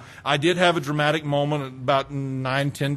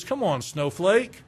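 slow mock taunt; 5 semitones higher, slower than usual. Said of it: "we may say something like this".

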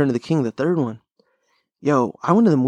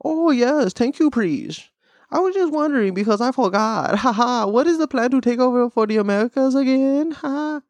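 put-on high-pitched caricature Asian accent; mock Asian accent; 10 semitones higher than usual. Retelling a cartoon Asian character's question, mock accent. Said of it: "speaking of the Asian accent".

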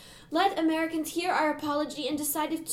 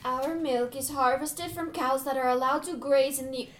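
earnest, measured plea for the product; unapologetically sincere. Acted. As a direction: make your case with total sincerity. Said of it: "They are unapologetically sincere".

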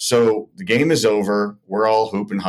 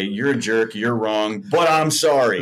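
passive-aggressive apology; 2 semitones higher, slower than usual. Retold or imitated. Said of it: "in my passive-aggressive way to say".

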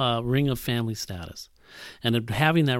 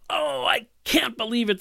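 indignant disbelief; 8 semitones higher than usual. Acted. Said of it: "They're agitated now, really angry".

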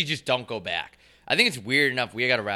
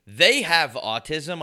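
they have autism slowed right down and louder; slow emphasis; 5 semitones higher, 7 dB louder, much slower than usual. Real, not acted.

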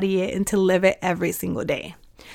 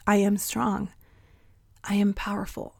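soft under-breath affirmation; 6 dB quieter than usual. Shown as a demonstration. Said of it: "we get to slowly whisper this word".

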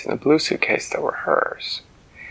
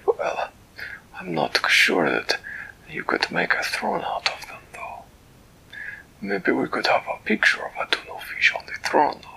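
higher, eager cat-king voice; a delighted, fussy creature greeting a friend; Flibbertigibbet's voice; 3 semitones higher than usual. Acted. Storyteller voicing Flibbertigibbet greeting Winella, high and delighted.

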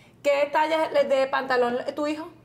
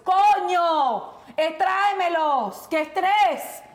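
exasperated outburst; 4 semitones higher, much slower than usual. Real, not acted. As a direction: vent the frustration, each word a burst. Venting frustration at husband's shopping.

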